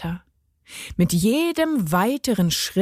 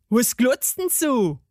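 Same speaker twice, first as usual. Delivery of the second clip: higher-pitched cranky gnome voice; a touch of anger in the gnome's voice; angry garden gnome; 4 semitones higher than usual. A narrator's reading. Gnome snaps at the staring girl, mildly angry. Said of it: "sah sie zornig an".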